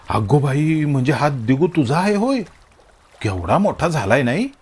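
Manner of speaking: put-on fond mother cooing over the boy; a touch of fond cooing; affectionate. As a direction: gush lovingly. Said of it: "आई लाडात येऊन".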